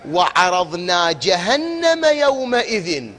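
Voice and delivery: slow, melodic Quranic chanting; measured tajwid recitation. Acted. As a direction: draw out جهنم slowly. Reciting second verse.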